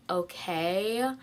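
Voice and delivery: low, rude questioning "okay". Acted. Someone answering her in conversation, rude questioning tone. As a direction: let it rise like a snotty question mark. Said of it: "such a rude tone".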